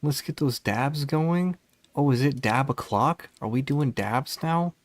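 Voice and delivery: high hype streamer greeting; excited welcome. Real, not acted. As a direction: welcome the raiders with loud energy. Greeting incoming raid.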